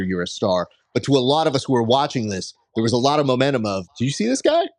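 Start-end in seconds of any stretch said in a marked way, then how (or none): 4.0-4.7 excited fan. Retold or imitated. Fans' excited buzz retold.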